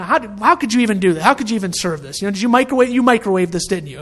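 quick, mildly heated retold scolding; mock yelling. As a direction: imitate a chef telling off the cook. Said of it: "he's just yelling at him".

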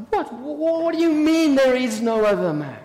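stammered incredulous echo; spluttering disbelief. Acted. Sister throwing Mary's denial back at her, spluttering disbelief.

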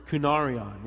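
"kunarion" said clearly as koo-NAR-ee-on; demonstrated Greek word. Shown as a demonstration. Preacher teaching the congregation a Greek word, clearly demonstrated. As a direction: model "kunarion" for others to repeat. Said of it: "Y'all say that with me".

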